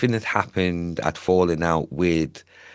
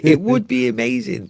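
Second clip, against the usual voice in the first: much higher, airy fantasy tone; dreamy high voice; 7 dB louder than usual. Pretend. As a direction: swoon over the dream in a lifted voice. Daydreaming about fairy tale holidays.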